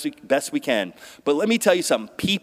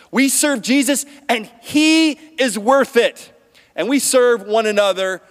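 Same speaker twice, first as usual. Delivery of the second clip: rousing preacher crescendo; building declaration; 6 semitones higher, 3 dB louder than usual. Real, not acted. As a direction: swell to a triumphant claim.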